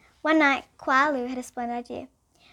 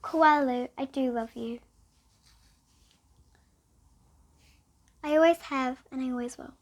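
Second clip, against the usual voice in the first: tender mother. Acted. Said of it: "flung her arms around her neck and said".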